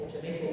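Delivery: Chemeco with a ch sound, rising; local word shown. Shown as a demonstration. Teacher showing the local word Chemeco. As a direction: say Chemeco with ch at the start. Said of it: "lo habéis oído Chemecar".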